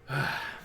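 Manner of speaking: the orc's heavy sigh; weary sigh. Acted. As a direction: sigh out as the orc. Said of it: "He sighs and he goes".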